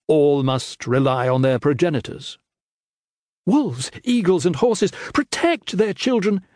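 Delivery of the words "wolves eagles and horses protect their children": high, pleading protest with a touch of tears; understated tearful plea in a high voice; weeping protest. Acted. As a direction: protest through mild weeping. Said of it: "she protested, weeping openly now".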